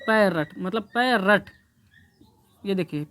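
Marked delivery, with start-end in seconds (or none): 0.1-0.6 पैरट in two parts, "pai-rat", one R; demonstrated pronunciation. Shown as a demonstration. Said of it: "इसलिए बोला जाता है". 0.8-1.5 पैरट in two parts, "pai-rat", one R; demonstrated pronunciation. Shown as a demonstration. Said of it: "इसलिए बोला जाता है".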